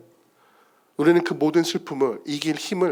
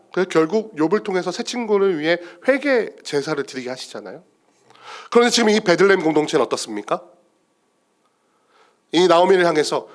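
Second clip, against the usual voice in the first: ordinary delivery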